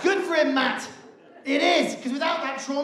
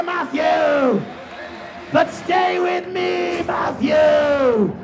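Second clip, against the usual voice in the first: put-on haunting girlfriend voice; slower than usual. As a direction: croon at him like a ghost.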